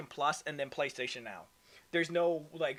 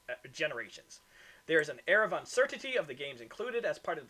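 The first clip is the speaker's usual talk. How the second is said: reading an article aloud; steady news-report reading. Acted.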